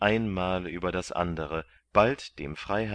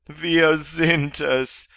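slow, drawn-out, higher, louder reply; weary slaves; 10 semitones higher, 10 dB louder, much slower than usual. A narrator's reading. The two chained slaves answer Kandid, slow and drawn out. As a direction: drag the words out like exhausted prisoners.

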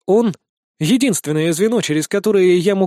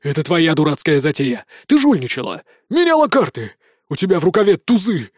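furious accusation. Acted. Drunk man accusing the girl.

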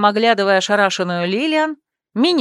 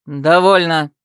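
firm, louder command; raised voice; 4 semitones lower, 4 dB louder, slower than usual. A narrator's reading. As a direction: shut the argument down. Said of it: "повысил голос Себастьян".

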